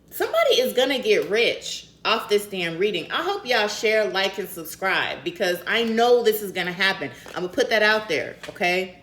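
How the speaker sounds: loud, high, hyped-up prediction; excited. Real, not acted. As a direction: hype it up like you just won. Excited hype about sagittarius money.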